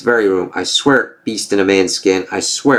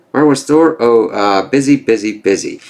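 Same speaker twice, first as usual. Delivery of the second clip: mocking taunt.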